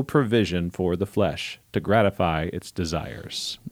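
measured radio-style scripture reading. Shown as a demonstration. Host reading Romans thirteen for listeners, radio voice. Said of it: "My radio voice. Here we go".

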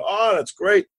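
high-pitched pleased reaction; delighted. Retold or imitated. Partner hearing the submarine floats, delighted. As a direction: lift the voice high in approval.

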